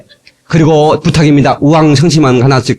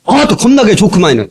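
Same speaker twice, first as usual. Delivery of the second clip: Jeolla dialect; 4 semitones higher than usual. Retold or imitated. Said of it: "전라도".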